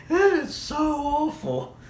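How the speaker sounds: high, slow, laugh-strained words; real giggles straining the voice; helpless with laughter. Real, not acted. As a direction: squeeze it out while cracking up. Face red from laughing.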